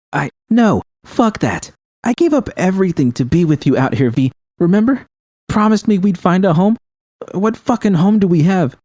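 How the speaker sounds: venomous shouting. A narrator's reading. Judy shouting at V about the broken promise of a home. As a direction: spit the words out, hurt and furious. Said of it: "her voice filled with venom".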